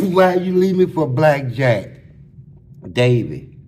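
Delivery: loud hammed-up sobbing plea; a hammed-up imitation of the crying inmate; mock crying wail. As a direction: wail like the heartbroken cellmate. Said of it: "I said, I said".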